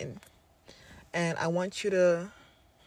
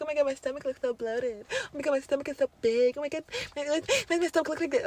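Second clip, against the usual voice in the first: anxious self-talk; 7 semitones higher, faster than usual. Retold or imitated. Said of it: "Don't be scared, like".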